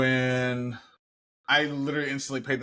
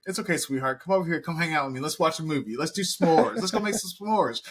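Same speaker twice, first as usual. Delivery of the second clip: higher, sweet coaxing voice; doting grandma; 5 semitones higher, faster than usual. Retold or imitated. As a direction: coo at the grandchild. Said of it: "is like".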